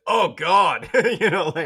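high, loud mock moan of Oh God; a hammed-up American moan, the accent slipping away; dropping the accent mid-moan. Slipping out of the fake Australian accent during sex, loud high mock moan. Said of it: "a nice Australian accent to".

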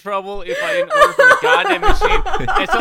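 usual speaking voice

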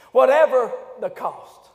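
slow, measured wartime resolve; a hint of Churchill. Preacher quoting Churchill, slow and measured. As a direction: lay it down slowly like Churchill. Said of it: "Winston Churchill would say it like this".

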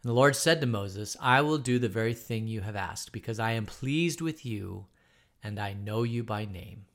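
measured, even Bible reading to the class; scripture reading. Acted. Teacher reading Exodus aloud to the class, steady reading voice. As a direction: read the verses steadily, like scripture.

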